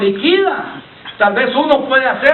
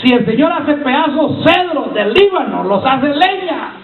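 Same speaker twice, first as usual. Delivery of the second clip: higher-pitched preacher's proclamation; forceful preaching; 5 semitones higher than usual. Acted. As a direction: proclaim it to the congregation, drawing out the end.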